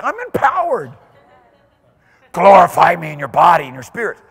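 high, loud cry of power; joyful proclamation. Acted. Preacher proclaiming to the congregation, triumphant. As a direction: shout it out triumphant.

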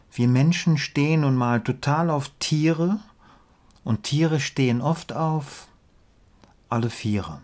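measured verse reading with pauses at line ends; deliberate, lilting rhymed delivery; poem recitation. Acted.

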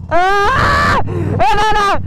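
high startled cry; surprised shout. Real, not acted. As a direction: yelp in surprise. Cri de surprise. (cri de surprise aigu)

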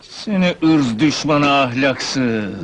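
slow, indignant accusation; angry yelling. Acted. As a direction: bellow an insult at a rival, drawing it out. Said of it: "Ne bağırıyorsun?".

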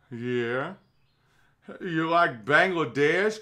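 put-on slow, rising Southern-accented question; Al Gore impression. Mocking Gore pointing out Bangladesh flooding, slow Southern accent. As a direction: draw it out in mock Southern. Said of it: "I'm just doing a generic Southern accent".

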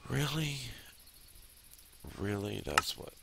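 high-pitched, incredulous protest; outraged disbelief. Real, not acted. Player learning about skill points, outraged disbelief. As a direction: burst out loud and high, then keep questioning it.

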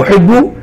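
أحب with the "b" held double, "uhibbu"; doubled ba. Shown as a demonstration. Teacher explaining the shadda, أحب said with a geminated "bb". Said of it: "والباء مشددة".

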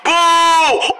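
high, held heckler's boo; jeering boo. Acted. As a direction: boo the act off stage. Crowd boos the comedian.

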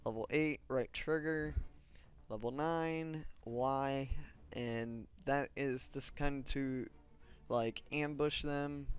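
slow, drowsy, slurred words; groggy from muscle relaxer. Real, not acted. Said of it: "And I am talking really funny tonight".

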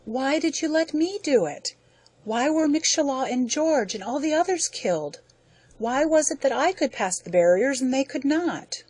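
weeping. Acted. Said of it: "Ludovick wept".

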